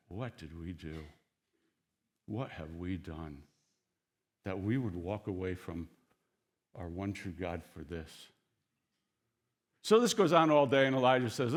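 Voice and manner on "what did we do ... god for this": regretful hush. Retold or imitated. Watching crowd wondering why they left God, hushed regret. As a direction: murmur it like a guilty confession.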